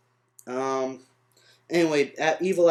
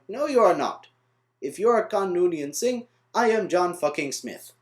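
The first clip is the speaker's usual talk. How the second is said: raised, badly faked Indian accent; 3 semitones higher than usual. People in India reject his claim, bad Indian accent. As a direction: do a hammy, clumsy Indian accent, pitched up. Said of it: "that's a horrible accent".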